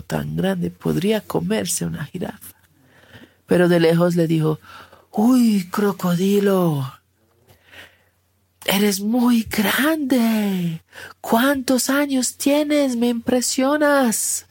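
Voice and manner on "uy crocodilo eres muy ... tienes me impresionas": high, slow, marveling giraffe voice; giraffe calling out. Acted. Giraffe calls to the huge crocodile from a distance, high and slow. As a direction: stretch each word out, high and impressed.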